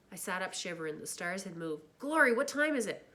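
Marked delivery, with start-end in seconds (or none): 2.0-3.1 startled. Acted. Startled awake, late night.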